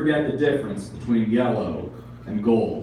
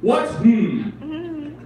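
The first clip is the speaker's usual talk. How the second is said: indignant pigeon; 13 semitones higher than usual. Acted. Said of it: "pigeons talk".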